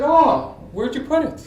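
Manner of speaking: hammed-up mom voice through laughter; imitating mom. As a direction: naive mother asking, played for laughs. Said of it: "that's what she sounded like".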